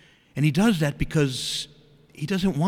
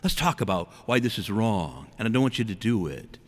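lightly voiced parent, lower and reasoning; a touch of patient parental lecture; teaching parent; 4 semitones lower than usual. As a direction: talk a child through it in a lower voice. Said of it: "you speak to them, you teach them".

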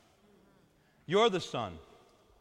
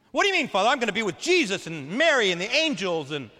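much higher and louder, a shocked protest; indignant surprise; 4 semitones higher, 7 dB louder than usual. Retold or imitated. Parishioner protesting to her priest, shocked and indignant. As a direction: sound affronted and surprised.

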